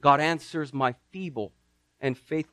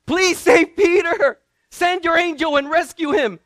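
high, loud pleading prayer; praying believers pleading loudly for Peter; fervent praying church; 12 semitones higher, 7 dB louder than usual. Acted. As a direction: beg heaven urgently, slowing on please. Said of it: "knock, knock, knock".

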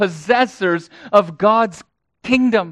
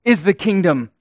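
raised voice; 2 semitones higher, 3 dB louder, slower than usual. Acted. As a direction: raise the voice a little on "theirs". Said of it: "Jesus raising his voice, as it were".

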